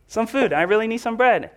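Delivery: a hungry friend begging his neighbor for bread; pleading friend. Pretend. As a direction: plead through the door, insistent. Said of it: "And he said".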